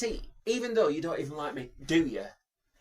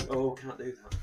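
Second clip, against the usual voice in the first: normal talking voice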